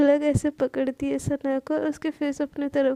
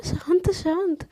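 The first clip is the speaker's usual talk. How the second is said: soothing calm down; 3 semitones higher, slower than usual. Acted. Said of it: "सोना क्या हुआ".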